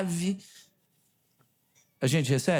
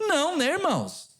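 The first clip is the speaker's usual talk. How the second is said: leading question; 10 semitones higher than usual. Retold or imitated. Prodding the silent congregation.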